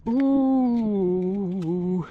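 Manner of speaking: shivering gasps from the cold; in ice cold water. Real, not acted. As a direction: breathe through the freezing water. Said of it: "It's freezing".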